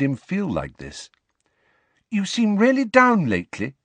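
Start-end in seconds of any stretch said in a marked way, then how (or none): 2.1-3.8 put-on high-pitched girl, pressing on; Ginny, persisting. A narrator's reading. Ginny pressing Harry about his mood, persistent. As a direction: press a friend in a high girl's voice. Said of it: "Ginny persisted".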